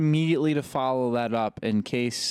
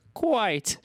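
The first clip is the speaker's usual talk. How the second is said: higher, hammed-up gentleman voice; mock gentleman; 10 semitones higher than usual. Rude gentleman propositioning the woman racer, hammed-up formal voice. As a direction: play an absurdly formal gentleman. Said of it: "a very rude gentleman".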